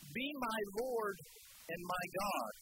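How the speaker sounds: slow, reverent, each word weighed; slow reverent confession. Acted. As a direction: let the awe slow you down. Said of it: "he said this".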